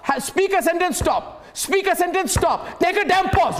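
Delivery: high, emphatic orders with hard stops; exasperated command. Real, not acted. Host cutting off a non-stop guest, exasperated command. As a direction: break it into short, forceful commands.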